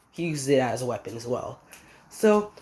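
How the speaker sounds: usual speaking voice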